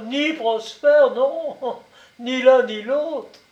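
ni Prosper drawn out high with a rising tune; mocking echo. A narrator's reading. Commandant echoing the name, high slow mock. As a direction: echo the name back teasingly.

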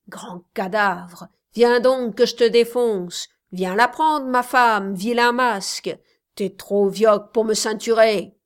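taunting. Acted. Young man taunting during fight.

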